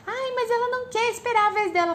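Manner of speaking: put-on very high complaining child; imitating a daughter's protest in a high whine; whiny child. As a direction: whine it like a small girl.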